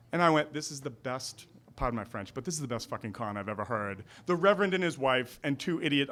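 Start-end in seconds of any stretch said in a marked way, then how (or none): 0.5-4.0 softer, lower confiding remark; hushed aside. Retold or imitated. Telling the audience about the couple's con, hushed. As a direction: say it under your breath.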